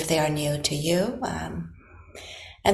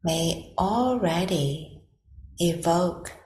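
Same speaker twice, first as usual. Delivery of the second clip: guided meditation. Acted. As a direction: gently guide them into stillness, leaving long silences between phrases.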